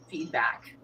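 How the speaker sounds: softly whispered, trailing off; a hushed afterthought; whispered word. Real, not acted. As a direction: let the word fall to a whisper.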